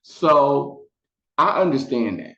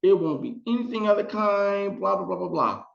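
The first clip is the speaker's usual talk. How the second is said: much higher, sugary mock reassurance; reassuring producers; 10 semitones higher than usual. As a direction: soothe her in a high, syrupy voice. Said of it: "they were like".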